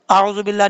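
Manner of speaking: आऊज़ु बिल्लाह quickly, oo left short; wrong short waaw. Shown as a demonstration. Teacher showing what not to read, short oo in आऊज़ु बिल्लाह. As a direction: skip the long oo in आऊज़ु. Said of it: "नहीं पढ़ना".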